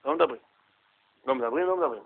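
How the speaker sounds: soft shushing rebuke, imitating the father; quiet hushing. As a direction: hush the boy mildly, imitating. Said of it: "סימן לו לשתוק". (השתקה שקטה מחקה את האב)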